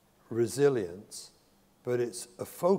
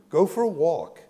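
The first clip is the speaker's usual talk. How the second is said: emphatic command; 4 semitones higher, 9 dB louder than usual. Real, not acted. Urging parents away from kids.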